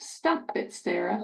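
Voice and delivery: whispered "Stop it, Sarah" with soft P; smooth model. Shown as a demonstration. Therapist models the phrase quietly.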